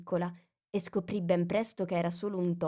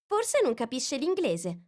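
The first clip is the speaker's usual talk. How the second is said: put-on slower, higher girl musing; Alice voice; 6 semitones higher than usual. A narrator's reading. Alice puzzles over the mouse. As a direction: wonder to yourself.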